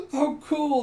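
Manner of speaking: high gasp of awe; hammed-up fangirl thrill; swooning admirer. Swooning onlookers react to Zeka.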